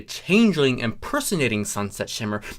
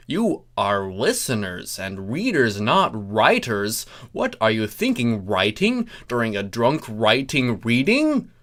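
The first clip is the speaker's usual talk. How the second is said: ordinary delivery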